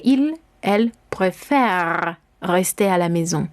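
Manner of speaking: slow "préfère", long open E, ending on R; unpronounced ending. Shown as a demonstration. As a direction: draw out "préfère" and drop the ending. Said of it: "No pronunciamos la terminación".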